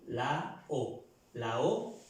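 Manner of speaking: "la O" with the last vowel a pure O; French pronunciation demo. Shown as a demonstration. Teacher showing students how A-U sounds as O, French pronunciation demo. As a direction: say "la O" slowly as a French model. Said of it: "la A y la U suena O".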